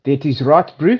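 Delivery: casual South African accent, clipped; a light South African bro voice. Shown as a demonstration. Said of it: "Can you do a South African accent?".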